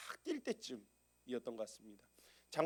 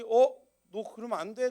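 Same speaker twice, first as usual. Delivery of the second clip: sharp warning; 7 semitones higher, 11 dB louder than usual. Retold or imitated. Father stopping the child.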